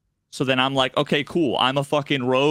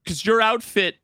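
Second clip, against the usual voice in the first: higher, smug mock correction; sly NPC pun; 3 semitones higher than usual. Quest giver insulting the outfit, hammed-up. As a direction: land the pun with a smirk. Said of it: "And then he goes".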